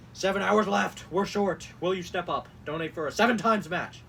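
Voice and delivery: loud urgent appeal; mock all-caps shout. Host reads a donation text, shouting in mockery. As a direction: hammer each short sentence like a telethon plea. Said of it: "certain things that, like, is being all caps".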